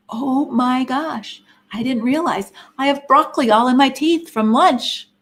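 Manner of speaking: drawn-out, mildly horrified realization; mock dismay. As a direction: act out a sudden embarrassing discovery in the mirror. Voices a dismayed look in mirror.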